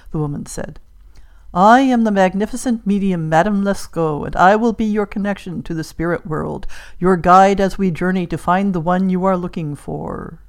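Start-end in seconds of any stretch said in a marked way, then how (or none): 1.5-10.4 lightly voiced, self-important fortune-teller; grand spirit medium. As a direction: introduce yourself with a touch of ceremony. Plays the medium introducing herself.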